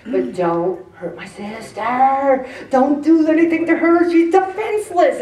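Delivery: acted fury, defending a sister; protective anger. Acts out fury defending her sister.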